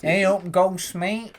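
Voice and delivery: high mocking voice, quoting someone; a high put-on voice mocking a guy. Mocking a haunted man's accent.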